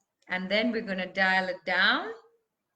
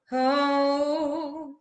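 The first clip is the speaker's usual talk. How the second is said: long, held "oh" louder than speech; angry sustained oh; 3 semitones higher, 5 dB louder than usual. Shown as a demonstration. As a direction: let anger start in a drawn-out oh. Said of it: "look at how your sound intensifies".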